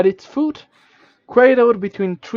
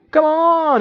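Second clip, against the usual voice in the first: high, louder impatient little sprite; impatient grumble; 10 semitones higher, 5 dB louder than usual. Acted. Minimite urges the traveler on, high and impatient. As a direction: hurry them along, annoyed. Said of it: "it grumbles, uh, impatiently".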